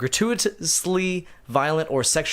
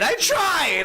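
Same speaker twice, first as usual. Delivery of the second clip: put-on Canadian accent; 12 semitones higher than usual.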